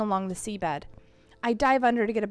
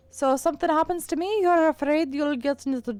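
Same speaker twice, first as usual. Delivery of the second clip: put-on fading Irish accent; 4 semitones higher, 4 dB louder than usual. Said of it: "I'm losing my Irish".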